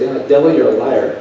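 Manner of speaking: preacher defying the devil, loud; rebuking the devil. Retold or imitated. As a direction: call the devil out.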